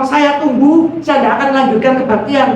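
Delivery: lightly voiced insistent preacher at the pulpit; pendeta. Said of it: "karena pendetanya ngomong". (menirukan pendeta yang mendesak)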